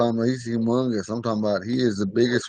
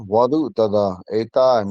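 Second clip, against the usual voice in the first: slow Ponca phrase; 3 dB louder than usual. Shown as a demonstration. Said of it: "the top one".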